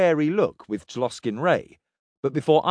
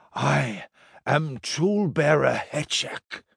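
slow, curious little alien voice; a small, odd creature asking politely; small hooded alien; 3 semitones higher, slower than usual. A narrator's reading. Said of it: "the small hooded person said".

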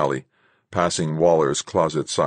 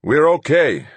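breathless, loud gasp; 9 semitones higher, 6 dB louder than usual. Acted. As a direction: gasp it out, spent. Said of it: "Rodriguez gasped".

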